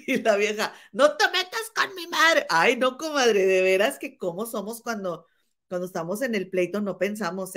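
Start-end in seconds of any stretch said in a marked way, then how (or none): 0.9-2.5 much higher, drawn-out outraged quote; hammed-up, high-pitched warning, stretched out; mock indignant shout. Retelling the fight over her mother, mock indignant outburst. Acts out angry reply in quarrel.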